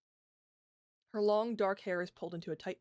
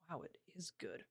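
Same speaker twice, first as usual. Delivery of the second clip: muttering; 11 dB quieter than usual. Acted. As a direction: mumble it under your breath. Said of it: "she mutters".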